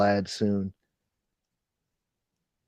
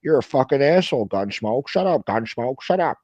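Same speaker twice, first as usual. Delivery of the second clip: high, loud mocking impression of an angry caller; mock angry rant; 5 semitones higher, 3 dB louder than usual. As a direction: ham up his whiny outburst. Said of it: "and he says".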